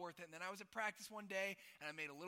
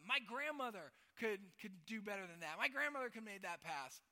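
louder, higher mock Croatian accent; imitated Croatian coach; 4 semitones higher, 7 dB louder than usual. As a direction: imitate a crusty Croatian coach scolding a player. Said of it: "crusty Croatian dude".

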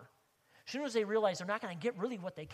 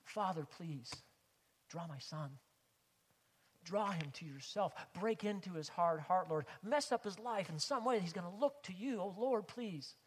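pleading prayer. Shown as a demonstration. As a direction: demonstrate praying urgently for a son. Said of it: "don't you pray like that".

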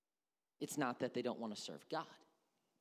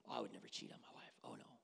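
mock denial; 9 dB quieter, faster than usual. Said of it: "We start to".

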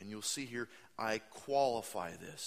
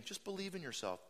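mock cartoon moral; 7 semitones higher, faster than usual.

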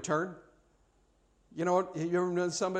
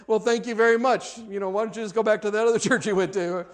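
stung pastor; 5 semitones higher, 5 dB louder than usual. Retold or imitated. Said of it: "the pastor was like".

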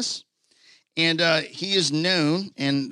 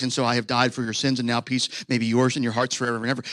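pompous sermon voice; 5 semitones lower, faster than usual. Pretend. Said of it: "theological exposition where he's like".

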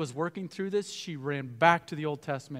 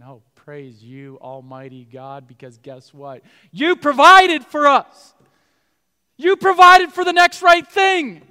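Mary and Joseph praising God for providing; fervent praise; 19 dB louder, slower than usual. Pretend. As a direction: lift it up to God in thanks. Family praising God in Egypt.

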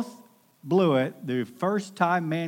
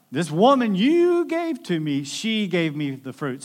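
high, louder finger-pointing whine; blaming; 4 semitones higher, 6 dB louder than usual. Retold or imitated. Adam throwing Eve under the bus, higher louder whine. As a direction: shove the blame onto her. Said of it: "throwing Eve under the bus".

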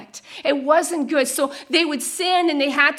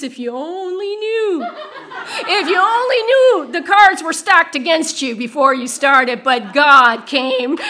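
building retold exclamation; 6 dB louder than usual. Overseer's retold words, building emphasis.

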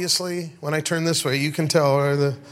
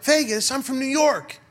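lightly voiced woman; 8 semitones higher than usual. American girl correcting him.

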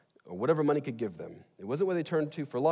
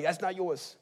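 put-on higher, little kid's rebuke in New York accent; 5 semitones higher, slower than usual. Little kids rebuking a house guest, mock New York accent. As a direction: imitate kids correcting someone with a New York twang. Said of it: "like, New York accent when I do that".

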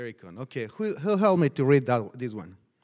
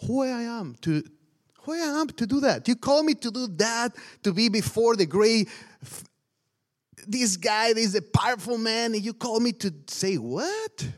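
raised, pleading Moses voice; a preacher acting out Moses' disbelief; Moses protesting; 4 semitones higher than usual. Moses protesting to God, higher and pleading.

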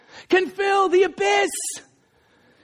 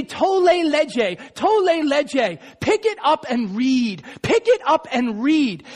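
put-on child's sing-song call; slower than usual. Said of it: "he hears a young child say".

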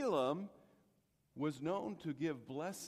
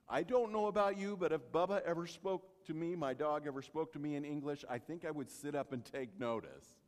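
ordinary talk, nothing marked

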